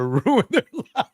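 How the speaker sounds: ordinary talk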